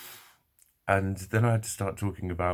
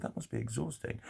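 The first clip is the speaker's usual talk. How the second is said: very soft, higher, sympathetic voice; kindly; 5 semitones higher, 8 dB quieter than usual. Retold or imitated. Repeating the girl's sympathetic words, very kindly. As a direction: quote her gently and softly. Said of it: "she said it really kindly".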